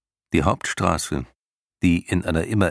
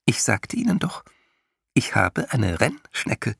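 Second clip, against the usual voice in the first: superior; 5 semitones higher than usual. A narrator's reading. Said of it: "lächelte ein wenig überlegen".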